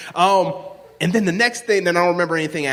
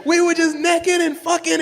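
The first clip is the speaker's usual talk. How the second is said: going off; 11 semitones higher than usual. Retold or imitated. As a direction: project it, boasting at full volume. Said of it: "And I started going off".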